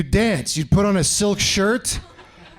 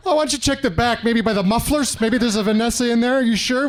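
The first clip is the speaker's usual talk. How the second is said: higher-pitched, wheedling suggestion; acted desperate pleading; 3 semitones higher than usual. Rejected caller presses Tony to look for Vanessa, mock desperate. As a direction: keep pressing hopefully, pitched up. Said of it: "you're still desperate".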